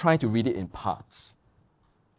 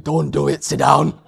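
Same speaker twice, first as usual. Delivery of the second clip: retold warning; 8 dB louder than usual. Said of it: "Sue was like".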